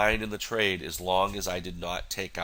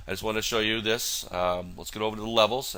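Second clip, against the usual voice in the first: stuffy, nasal voice from a cold; 3 semitones higher than usual. Real, not acted. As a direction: talk through a blocked nose. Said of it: "nasally sounding voice here".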